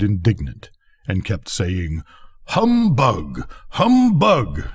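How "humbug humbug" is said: hammed-up jeer, climbing on the repeat; mock shout. A narrator's reading. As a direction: fireworks jeering at the rocket, a mild mock shout. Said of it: "at the top of their voices".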